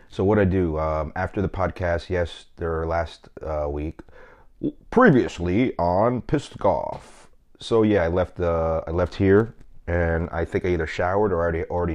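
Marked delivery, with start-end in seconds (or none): 4.9-7.3 slow, mock TV-recap announcer; drawn out like a TV "previously on". Host recapping last week in a mock announcer read.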